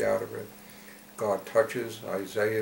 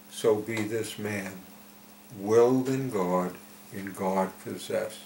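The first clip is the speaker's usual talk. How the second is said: solemn verse recitation. Acted. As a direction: recite it line by line, with pauses. Recites verse of the message again.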